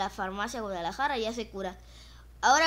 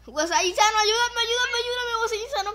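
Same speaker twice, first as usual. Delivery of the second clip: pleading; 10 semitones higher, 6 dB louder than usual. Real, not acted. Pleads for help.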